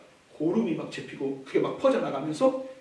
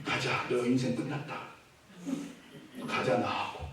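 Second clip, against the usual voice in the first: God's grim summons; 7 semitones lower, 10 dB quieter than usual. Acted. God's final call, low.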